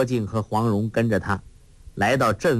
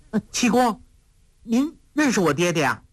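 put-on girlish voice, somewhat higher; a playful girl teasing her companion; lightly voiced sly young girl; lively young girl; 9 semitones higher than usual. A narrator's reading. Huang Rong voice again.

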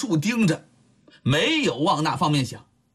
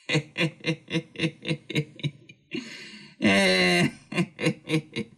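a leering rake laughing under his breath; lecherous snicker; 2 semitones lower, slower than usual. Acted. Lecher eyeing the girl.

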